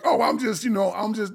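high, caught-out stammering; flustered stammer. Retold or imitated. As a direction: stumble like she got caught. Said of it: "the girl was like".

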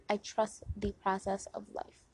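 softly spoken mantra; soft affirmation. Shown as a demonstration. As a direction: say it gently to yourself. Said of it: "One more time".

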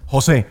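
"José" said as ho-SÉ; José with accent mark. Shown as a demonstration. Host tries the accented name, José stressed on the E. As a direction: put the stress on the last E of "José". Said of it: "con el palito".

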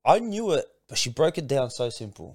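emotional outburst. Real, not acted. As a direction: pour out the shock of being seen through, rising loud. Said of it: "bawling my eyes out".

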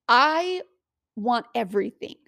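confident loud claim; bold declaration. Shown as a demonstration. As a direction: claim it proudly. Proclaiming the desire.

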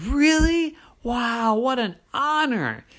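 high, eager little leprechaun voice. Acted. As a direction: bounce with excitement like a small boy. Liam character voice.

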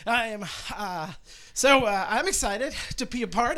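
talking while bouncing up and down; on a trampoline. Real, not acted. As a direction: let each bounce jolt the words. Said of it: "I am bouncing up and down".

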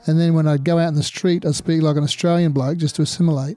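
lightly put-on Australian accent. Shown as a demonstration. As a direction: slip into an everyday Australian bloke's accent. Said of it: "That's a good Australian accent".

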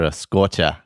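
put-on "scorcha" in a light Boston accent. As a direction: drop the r on "scorcha", Boston style. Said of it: "my Boston accent".

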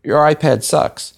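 high-pitched heckle from the crowd; mock heckler yell. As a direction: jeer at the presenter, acted out. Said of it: "someone in the audience yells".

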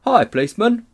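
high, loud Cockney hail; red-faced cabby. A narrator's reading. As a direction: call for the policeman's attention. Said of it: "The red-faced man in a bowler hat".

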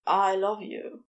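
slightly low, restrained love confession; understated declaration of love; understated Crowley. Acted. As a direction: say it simply, in a contained voice. Crowley's confession, paired with reply.

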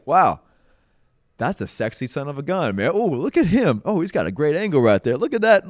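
hammed-up self-admiration at the mirror; teasing, vain mirror talk; mock vanity. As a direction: playfully admire yourself, tongue in cheek. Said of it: "I'm just being a little facetious".

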